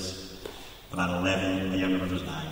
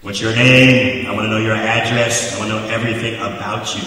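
mock cop demand; 8 dB louder than usual. Railroad cop questioning the boys, loud mock demand. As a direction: grill them like a bossy cop.

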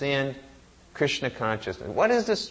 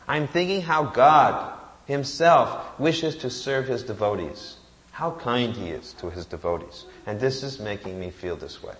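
tearful devotion; 3 semitones lower than usual. Acted. Brahmin weeping over Krishna's kindness.

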